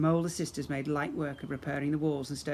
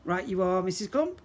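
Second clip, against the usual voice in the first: grinning pirate; 4 semitones higher, 4 dB louder than usual. Acted. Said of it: "said with a grin".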